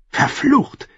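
angry outburst. Acted. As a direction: spit the curse out, high. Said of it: "entfuhr es Margeri". (Fluch, heftig und hoch herausgestoßen)

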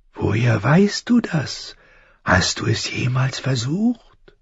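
slow, high creature voice; high, thin voice. A narrator's reading. Unseen crow questions the falling boy, high and thin. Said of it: "Die Stimme klang hoch und dünn".

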